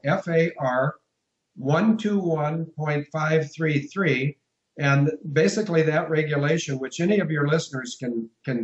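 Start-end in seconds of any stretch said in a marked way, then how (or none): 0.0-4.4 very slow, careful dictation of the code; deliberately slow, every digit separated; slow and clear. Shown as a demonstration. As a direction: spell it out slowly so they can write it down. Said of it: "I'm gonna speak as slowly and as clearly".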